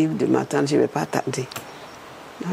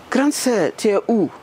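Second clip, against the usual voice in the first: retold caller's voice, pitched higher; caller on the phone; 5 semitones higher than usual. Woman retelling a phone call, higher caller voice. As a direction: lightly play the caller asking where she is. Caller phoning her on Saturday.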